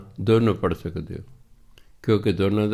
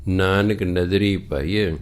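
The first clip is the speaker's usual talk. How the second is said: scripture recitation; 2 semitones lower, slower than usual. Acted. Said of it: "ਤਾਂ ਕਹਿੰਦੇ".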